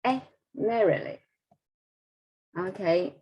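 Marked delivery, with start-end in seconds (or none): 0.5-1.2 "primarily" with all the weight on MAR; highlighted stress. Shown as a demonstration. Teacher checking the stressed syllable, highlighted stress. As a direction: hit the MAIR in "primarily", then drop. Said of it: "I will highlight the stress here".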